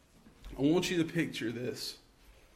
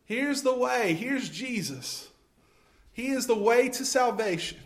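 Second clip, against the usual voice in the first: mild calling out; 6 semitones higher than usual. Pretend. Church calls to a lost world, mildly raised. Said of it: "you are the voice crying out, saying".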